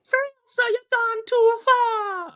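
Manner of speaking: slow, high mock Jamaican accent; a playful Jamaican accent trailer line. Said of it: "that was like a Jamaican accent".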